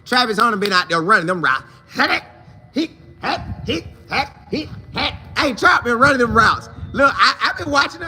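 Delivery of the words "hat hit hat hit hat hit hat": high, soft hut hut cadence call; high quiet cadence chant. Retold or imitated. Quarterback calling the snap cadence, high and soft. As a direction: chant hit hat like a quarterback.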